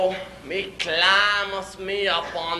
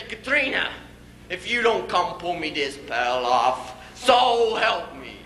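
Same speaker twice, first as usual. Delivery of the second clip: really mad. Acted. Husband threatening wife to pull pail off, mock anger. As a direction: warn her, stretching the last words. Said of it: "Then I get really mad".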